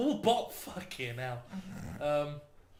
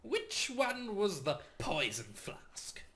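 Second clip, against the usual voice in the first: slow confused mad scientist; befuddled necromancer; slower than usual. Acted. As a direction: puzzle over it slowly. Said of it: "He was like".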